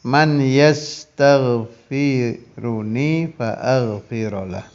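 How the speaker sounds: slow, measured Arabic reading; unhurried sacred-text reading; hadith recitation. Acted. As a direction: recite the hadith phrase by phrase with long pauses.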